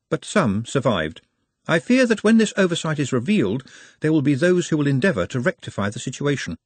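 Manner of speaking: formal, fearful Nutt. Acted. Nutt explains that survivors will be hunted, formally apprehensive. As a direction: voice a worry in stiffly formal speech.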